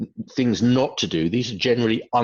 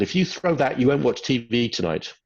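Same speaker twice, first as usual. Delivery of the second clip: mock parent threat; 4 semitones higher than usual. Shown as a demonstration. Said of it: "so here's my example".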